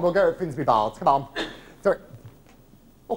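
ordinary talk

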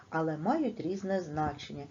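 usual speaking voice

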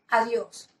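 a simple demo goodbye, falling at the end; friendly farewell example; saying goodbye. Shown as a demonstration. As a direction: say goodbye as if waving to a child. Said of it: "decimos adiós y lo reforzamos moviendo nuestra mano".

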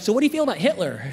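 casual, quick lead-in to a question; easing in. Retold or imitated. Comic easing his seatmate into a touchy topic, casual quick question. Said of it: "I'm trying to ease into the situation".

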